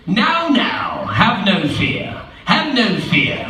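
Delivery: slow, drawn-out calming cat voice; soothing cat. Acted. The cat calms the worried fish, slow and soothing. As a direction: hush them like a smooth talker.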